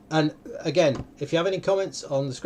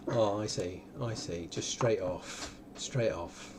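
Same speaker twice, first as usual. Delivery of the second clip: mock impressed; 6 semitones lower, 9 dB quieter, slower than usual. Real, not acted. Teasing player's instant guesses.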